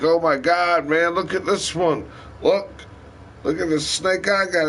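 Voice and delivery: thrilled to shove the snake at her; excited showing off. Retold or imitated. Showing girlfriend the snake skin.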